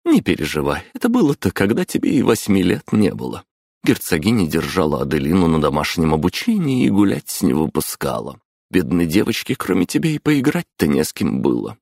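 lightly voiced chatty mother; a hint of a lively mom. Мама рассмеялась. (лёгкий голос мамы)

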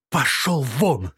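slow, drawn-out screamed order; screaming. Acted. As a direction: scream it at full voice. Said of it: "закричала она так громко".

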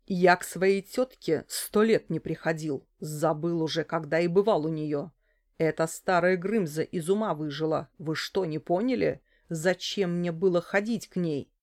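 ordinary delivery, nothing marked

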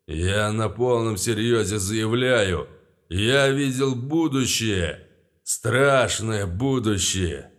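loud, slurred grand speech; drunk speech. Acted. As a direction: orate while tipsy. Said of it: "интонация всё сильнее напоминала алкоголическую".

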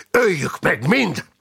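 high, slow rallying shout; rally them to the slaughter; shouted war cry. A narrator's reading. Fighter fired up by his friend's zeal, shouted war cry. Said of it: "kiáltott fel Lack Fipalkó".

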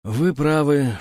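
usual speaking voice

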